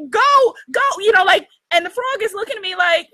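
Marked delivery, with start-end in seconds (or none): 0.1-0.8 frantic shooing. Retold or imitated. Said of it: "I was, like, screaming".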